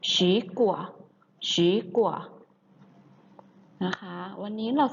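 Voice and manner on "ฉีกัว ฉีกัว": "ฉีกัว" with a rising second tone on the first syllable. Shown as a demonstration. Teacher modelling the Chinese word for fruit, "ฉี" in rising second tone. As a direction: say "ฉีกัว", lifting ฉี in Mandarin second tone. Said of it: "จึงออกเสียงว่า".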